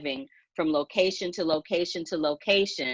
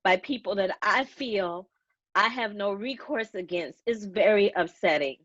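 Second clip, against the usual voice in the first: tearful voice fading out at the end; real tears, trying to finish the thought; upset and close to sobbing; crying. Real, not acted. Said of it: "I'm so sorry that I'm crying".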